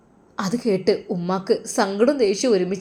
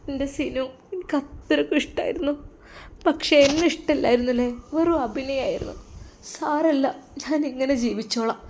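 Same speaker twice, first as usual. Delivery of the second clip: higher and softer, tearful lament; crying; 4 semitones higher, 4 dB quieter than usual. Acted. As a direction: grieve quietly, voice lifted. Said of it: "പൊട്ടിക്കരഞ്ഞു". (ഉയർന്ന, മൃദുവായ കരച്ചിൽ ശബ്ദം)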